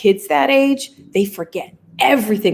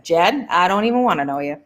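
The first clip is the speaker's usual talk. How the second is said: the line in a light New England accent; a hint of New England, Jed. Shown as a demonstration. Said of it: "New England accent".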